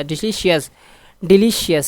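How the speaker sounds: डिलीशियस with ली stressed; stress on second syllable. Shown as a demonstration. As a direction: lean on ली in डिलीशियस. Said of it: "डिलीशियस second पे".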